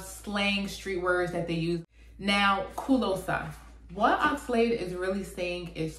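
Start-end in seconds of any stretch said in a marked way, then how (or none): 2.7-3.5 The song title as a Nigerian-accented "closer", open A ending. Shown as a demonstration. Naming the song for viewers, Nigerian accent. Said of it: "says it in a Nigerian accent".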